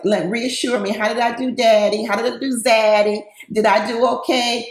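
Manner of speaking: lightly voiced little girl asking her daddy; a hint of a needy little girl, mock sweet. Brandy running to Mike for reassurance, lightly girlish. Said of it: "She kinda like a little girl".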